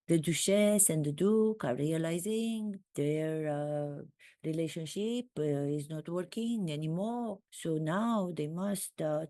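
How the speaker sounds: mock French accent, lightly done; comic French accent throughout. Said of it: "now I'm doing a French accent".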